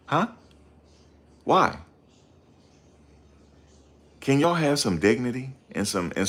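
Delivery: frustrated rant at the chat; exasperated plea. Real, not acted. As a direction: beg them to stop, fed up and rising. Pleading with viewers, exasperated.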